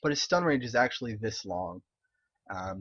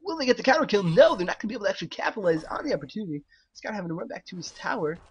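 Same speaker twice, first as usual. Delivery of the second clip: high, excited esports caster; Breaky style casting voice; 8 semitones higher, 5 dB louder, faster than usual. Pretend. Streamer mimics a caster calling the counter kill, high-pitched casting voice. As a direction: call the play high and loud, rushing through it. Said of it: "it's my breaky style casting voice".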